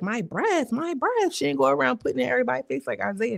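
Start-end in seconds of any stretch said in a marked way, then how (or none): 0.0-0.7 higher, indignant repeat of my breath; mock offended. Repeats phrase, rising outrage. 0.7-1.3 my breath jumps way up high in disbelief; outraged squeak. Retold or imitated. Repeats phrase, rising outrage.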